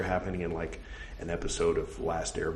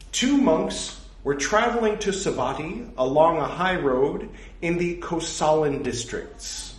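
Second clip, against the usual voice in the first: slightly louder, careful recital voice; scripture reading; 9 semitones higher, 5 dB louder, slower than usual. Acted. Reading a monastic rule aloud to his audience, measured recital. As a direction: read the old text out with measured weight.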